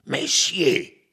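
a mild furious shout; indignant count, lightly voiced; furious cry. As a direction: count snapping out one word. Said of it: "gridò il conte furibondo".

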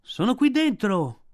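high, loud call from inside; shouting boy. A narrator's reading. Mowgli shouts to his friends from inside, trapped. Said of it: "gridò Mowgli".

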